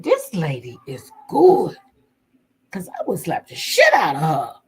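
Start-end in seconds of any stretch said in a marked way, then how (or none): 0.0-1.8 impressed aside. Real, not acted. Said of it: "I said".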